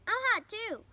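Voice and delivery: high, loud whiny shout; crying out. A narrator's reading. Avery wants water too, high loud complaint. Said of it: "cried Avery".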